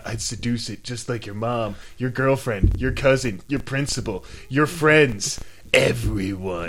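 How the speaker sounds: low, soft, teasing list; mock seductive. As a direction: drop it low and smooth, one item at a time. Mock seduction line about the van.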